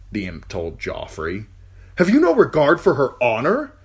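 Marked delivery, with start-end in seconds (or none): 2.0-3.7 loud, higher, slowing angry challenge; angry demand. Acted. Uncle confronting the knight, loud and angry. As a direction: demand it with cold fury.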